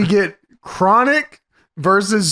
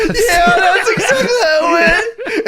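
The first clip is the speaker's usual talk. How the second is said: high, fast laughing heel voice; mock cocky wrestler; 11 semitones higher than usual. Acting out Chronic's threat.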